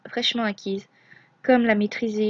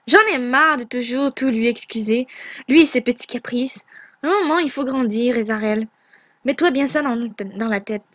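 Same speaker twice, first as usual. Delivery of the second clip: louder angry rant; furieux; 3 dB louder than usual. Acted. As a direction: refuse to excuse him any longer. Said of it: "Nevra est partie en furie". (Nevra refuse d'excuser Ezarel, furieux et plus fort)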